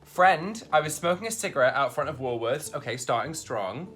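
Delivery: put-on Australian accent. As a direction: play it like an Aussie bloke telling a yarn. Reads Australian slang script.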